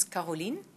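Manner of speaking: Caroline said the French way, "ka-ro-LEEN"; French pronunciation. Shown as a demonstration. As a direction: say Caroline with an "ah" first and a long "ee" ending. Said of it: "try to pronounce it the French way".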